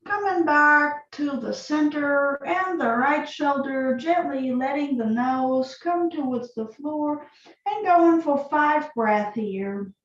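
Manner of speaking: calm, unhurried yoga instruction with long pauses; guided yoga practice. Acted. Yoga teacher leading students through breath and neck stretches, calm guiding voice.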